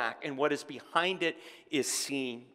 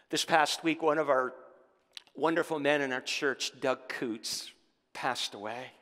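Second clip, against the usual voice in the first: subdued, lowered voice of mourning; solemn announcement; 3 semitones lower than usual. Real, not acted. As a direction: break sad news to the congregation gently. Announces a church member's death.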